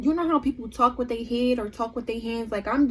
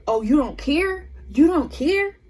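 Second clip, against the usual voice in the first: imitating angry friend; 3 semitones higher, 3 dB louder, slower than usual. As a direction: throw it back like an accusation. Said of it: "Like, she getting mad".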